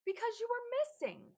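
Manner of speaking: high, loud, upset cry; upset shout. Acted. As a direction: blurt it out in tears.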